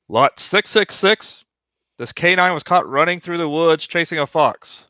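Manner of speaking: lightly voiced auctioneer. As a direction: present the lot to the crowd.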